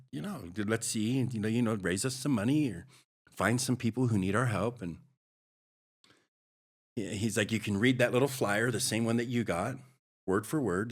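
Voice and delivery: a fired-up pastor daring him to go out; pastor's pep talk. Retold or imitated. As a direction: pastor pushing a bragging newcomer to go do outreach, pumped up.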